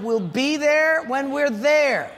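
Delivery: slow, clipped-patience reply with a laugh; a touch of annoyance held in; irritated dad. Retold or imitated. Dad losing patience with kids, slow and mildly irritated. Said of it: "my attitude is crumbling".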